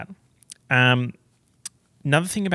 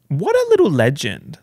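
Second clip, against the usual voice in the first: gushing; 3 semitones higher, 7 dB louder than usual. Real, not acted. Gushing over the dog.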